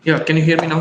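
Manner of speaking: speaking up close to the mic. Real, not acted. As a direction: raise your voice so they hear. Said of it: "Come, come closer to mic".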